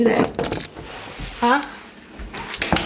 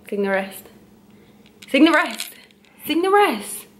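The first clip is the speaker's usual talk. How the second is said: climbing higher with each repeat, ending much higher; playful nagging getting higher; sing-song nagging; 3 semitones higher than usual. Acted.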